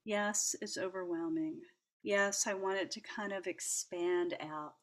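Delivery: calm yourself down gently, almost under the breath; soothing yourself while petting the dog; soothing self-talk. Retold or imitated. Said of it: "I was saying to myself".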